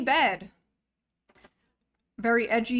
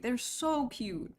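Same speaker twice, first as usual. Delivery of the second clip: fond; 6 dB quieter, slower than usual. Real, not acted. Fond remark on stingrays.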